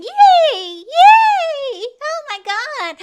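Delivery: high, loud squealed cheering; mock excitement. Host mocking the mom's excitement, mock squeal. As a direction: gush with over-the-top fake delight.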